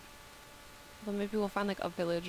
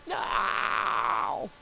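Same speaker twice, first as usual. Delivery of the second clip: startled shout; 7 dB louder than usual. Real, not acted. Startled by attack.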